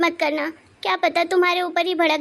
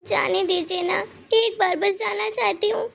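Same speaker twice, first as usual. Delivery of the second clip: pleading through tears, pitch climbing higher; tearful pleading; 3 semitones higher than usual. Acted. Wife begging her husband to let her visit family, tearful. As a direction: beg him to let you go, near tears. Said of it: "ये आंसू क्यों बहा रही है".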